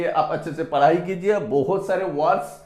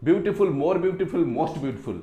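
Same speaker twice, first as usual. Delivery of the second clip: slow, deliberate "beautiful more beautiful most beautiful"; slow classroom chant of the forms; slow recitation; 3 semitones lower, 3 dB quieter, much slower than usual. Shown as a demonstration. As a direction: recite the three forms slowly like a drill. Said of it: "पावरफुल more powerful most powerful".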